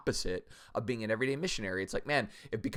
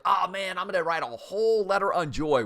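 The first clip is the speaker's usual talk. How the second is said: excited Paul; 7 semitones higher, 6 dB louder than usual. Retold or imitated. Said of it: "where Paul's like".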